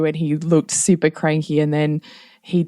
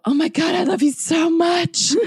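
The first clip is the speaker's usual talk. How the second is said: hammed-up gush; 12 semitones higher than usual.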